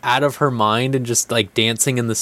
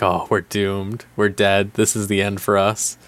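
mock doom; 3 semitones lower than usual. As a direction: groan it like the end has come. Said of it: "like a horror game now for them".

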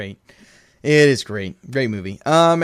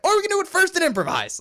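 mock Groot; 13 semitones higher, faster than usual. Groot's quip, acted quote.

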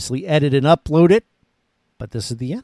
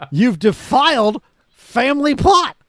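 laughing; 9 semitones higher, 4 dB louder than usual. Real, not acted. Mock outrage at guest's ranking.

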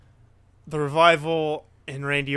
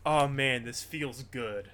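contented relief; 5 dB quieter, slower than usual. Retold or imitated. Acting out own contented reaction.

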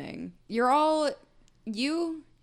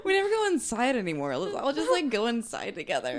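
laughing; 3 semitones higher, 4 dB louder than usual. Pretend. Joking, laughing mock proposal.

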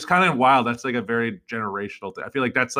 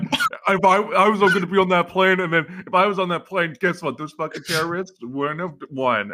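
Mark Wahlberg; 6 semitones higher than usual. Retold or imitated. Mocking an actor's claim of plane heroics, mock bragging. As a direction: send up a cocksure boast. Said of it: "Mark Wahlberg was just like".

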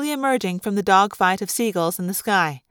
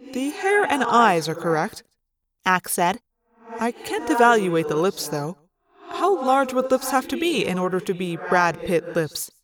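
lightly voiced formal, even character; Axe, literal and puzzled; 2 semitones lower than usual. Axe puzzles over a human comparison, earnest and formal. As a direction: ask it in all seriousness, evenly.

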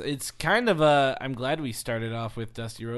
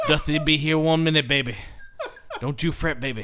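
Dusty Rhodes voice; 2 semitones higher, 5 dB louder than usual. Pretend.

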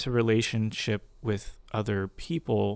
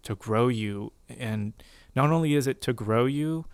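gentle voice of God. Retold or imitated. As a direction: hush it down, tender and unhurried. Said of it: "his voice just so gently".

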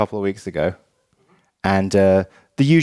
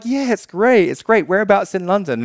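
imitated Uber driver; 9 semitones higher than usual. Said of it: "And she's like".

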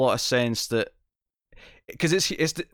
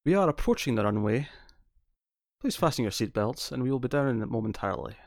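lightly voiced, softer pilot announcement; a hint of reassuring airline captain; safe-sounding pilot voice; 4 dB quieter than usual. Testing whether a Scottish pilot sounds safe, lightly voiced pilot announcement. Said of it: "Does that sound safe?".

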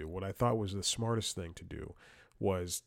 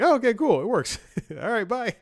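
much higher, louder, bright sing-song; mock chirpy relief; 13 semitones higher, 9 dB louder than usual. Caller wrapping up with the support guy, much higher in mock cheer. Relieved retold reply, hanging up.

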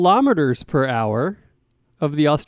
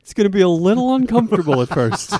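fake soothing doctor; 3 semitones higher than usual. Role play fitting the device.

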